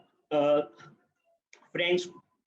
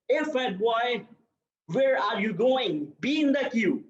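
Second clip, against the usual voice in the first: translated teacher's scold; 4 semitones higher than usual. Retold or imitated. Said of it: "Which means".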